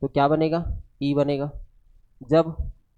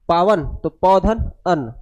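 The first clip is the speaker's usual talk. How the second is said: slow split; 4 dB louder, slower than usual. Shown as a demonstration.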